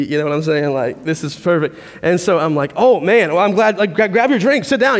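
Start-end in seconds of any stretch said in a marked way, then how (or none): 2.7-5.0 eager, higher and quicker; a mildly hammed-up rush of excitement; retold excitement. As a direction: jump at the chance, all keyed up. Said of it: "I'm all excited".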